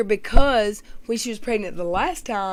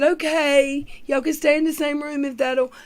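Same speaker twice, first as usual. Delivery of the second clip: mock mom; 6 semitones higher than usual. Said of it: "she said".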